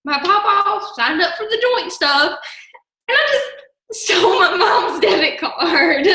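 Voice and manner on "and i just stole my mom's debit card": laughing confession, pitch jumping up; breaking into laughter. Real, not acted. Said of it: "I can't stop laughing".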